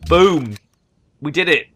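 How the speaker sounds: a proud victory shout; excited cheer. Real, not acted. Triumph after wiping out religion.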